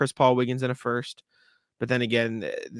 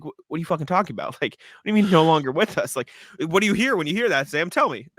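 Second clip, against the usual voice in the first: quick and higher, frantic disbelief; panicked retelling; 4 semitones higher than usual. Retold or imitated. Retelling mom's fake news to Sam, mock panicked. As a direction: rattle it off like a half-mock panic. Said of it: "I went to a panic".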